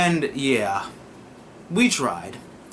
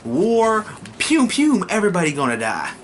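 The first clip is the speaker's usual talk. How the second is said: mock war cry; 6 semitones higher than usual. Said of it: "They like".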